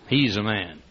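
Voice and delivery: low, soft growling hum; understated deep rumble, like an old bulldog; quiet bulldog man. Acted. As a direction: say it low and unhurried. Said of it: "looks up at you and says".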